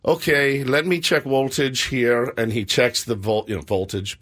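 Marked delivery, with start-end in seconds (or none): 0.1-2.3 slow Russian repairman imitation, "woltage"; Russian accent. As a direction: say it like a Russian handyman. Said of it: "he's Russian".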